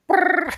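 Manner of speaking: high rolled brrr; imitated dog noise. Host mimicking dogs setting each other off, high trilled noise.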